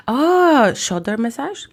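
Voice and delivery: imitating a salon worker's eager offer; nail tech offering.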